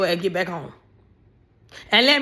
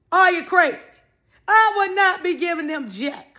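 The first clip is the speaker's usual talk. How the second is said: indignant yell; 7 semitones higher than usual. Real, not acted. Scolding a woman paying for the trip, high indignant yell. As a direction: yell it at her in disbelief.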